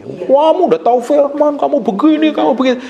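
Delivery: mock complaint in a high voice; complaining wife. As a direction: nag the husband, pitched well up. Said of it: "istri sering komplain suami".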